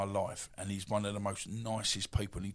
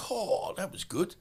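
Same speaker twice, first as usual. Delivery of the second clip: much higher, slow, breezy mock-casual reply; mock cheerful shrug-off; 10 semitones higher, slower than usual. Boxer to trainer Lenny after being rocked, mock breezy. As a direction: pretend the punch didn't hurt. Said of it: "I went".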